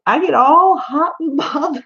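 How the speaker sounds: giggles breaking up a playful confession; laughing through the words, flustered; giggling. Real, not acted. Confessing her crush on the accent, giggling.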